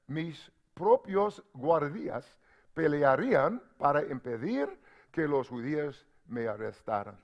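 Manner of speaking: quiet, measured reading of scripture. Acted. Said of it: "Let me read to you in Spanish".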